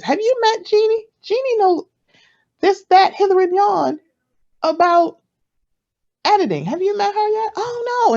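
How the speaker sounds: very high, sing-out hype voice; gushing introducer. Acted. Friend pulling an introvert along, gushing introducer. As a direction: talk someone up in a high mock gush.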